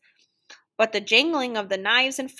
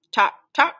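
loud, separate tocks; emphatic big-clock ticking; 5 semitones higher, 6 dB louder than usual. A narrator's reading. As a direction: knock out each tock firmly. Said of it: "said the big ones".

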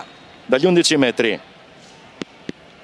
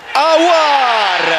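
excited call; 5 semitones higher than usual. Real, not acted. Penalty kick called out.

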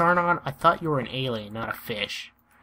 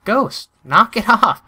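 loud laughing telling off; laughing protest; 6 semitones higher, 8 dB louder than usual. Real, not acted. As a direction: laugh while scolding a friend. Friend griefing in game.

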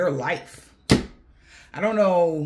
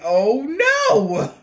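laughing mock panic; 11 semitones higher, 5 dB louder than usual. Imagining ex freaking out.

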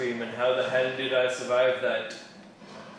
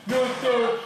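excited shout; 9 semitones higher, 5 dB louder than usual. Real, not acted. Excited gaming callout.

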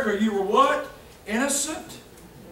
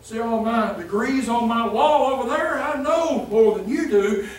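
arrogant talking down. Retold or imitated. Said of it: "Talking down arrogantly".

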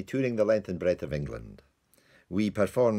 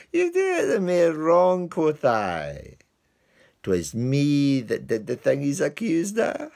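much higher, louder eager confession; high protest; 8 semitones higher, 6 dB louder than usual. Acted. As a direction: blurt it out to save the dog. Lance confessing to the whipper.

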